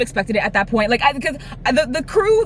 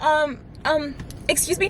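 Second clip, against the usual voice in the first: high, soft, hesitant excuse me; timid people-pleaser; 6 semitones higher, 6 dB quieter, slower than usual. Retold or imitated. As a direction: imitate a meek, over-polite interruption. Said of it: "very big people pleaser at the time".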